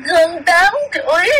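crying. Acted. Child spirit answering, crying.

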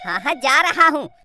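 ordinary talk, nothing marked

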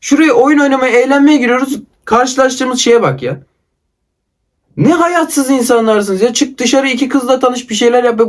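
exasperated complaint, pitched slightly up; angry venting. Real, not acted. Gamer telling lifeless players to go outside, angry. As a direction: vent real frustration at the other players. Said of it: "bu kadar sinirlendiğimi hatırlamıyorum".

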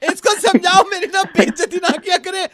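laughing. Acted. Wife complaining, laughing.

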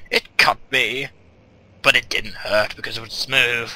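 grand storyteller's reading of a found note; dramatic reading. Acted. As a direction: read it like an old explorer's diary. Reads a diary note aloud.

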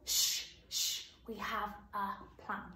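whisper-soft beckoning; hushed sh. Shown as a demonstration. Teacher says it along with the children. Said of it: "Let's see whether you can do it".

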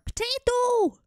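high, loud burst of discovery; excited shout. Real, not acted. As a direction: blurt it out like a eureka. Sudden idea in game.

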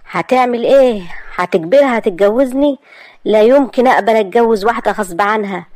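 heated refusal; upset young man. Acted. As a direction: argue back at the uncle, hurt and stunned. Asad objects to forcing her.

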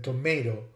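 tomato as "to-MAY-to"; long-A tomato. Shown as a demonstration. Lecturer repeating the variant, tomato with long ay. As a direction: say tomato with an ay in the middle. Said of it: "Some other examples are".

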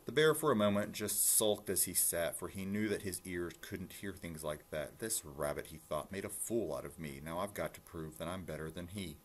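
lilting rhymed read-aloud; story narration. A narrator's reading. Reading a rhyming rabbit story to listeners, storytelling. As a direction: read it out clearly in bouncy verse.

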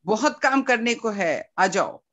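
a light imitation of his Hindi-accented welcome, quick on the middle line. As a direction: echo his accent loosely, brisk and friendly. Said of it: "in his accent".

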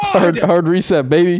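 gloating over the reset, loud; gloating shout. Real, not acted.

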